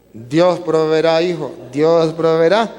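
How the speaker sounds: calm his son while grieving inside; slow, subdued reassurance. Acted. Father answers son, grieving.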